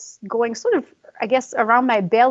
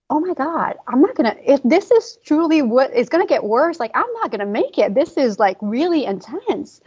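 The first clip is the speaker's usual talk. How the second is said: a high, rising rush of panic, retold; panicked; 4 semitones higher than usual. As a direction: replay the fear of not making it through the pain. Panicking in labor contractions.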